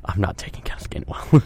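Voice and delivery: whispered aside to himself; whispering. Real, not acted. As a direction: drop to a whisper. Aside while choosing a pick.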